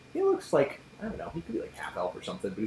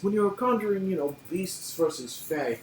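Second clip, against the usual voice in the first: pompous lecturer; 4 semitones higher than usual. Acted. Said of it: "He's like".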